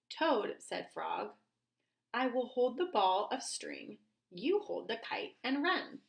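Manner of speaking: lively, careful read-aloud with stressed key words; story read to children. Acted. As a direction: read it expressively for young children.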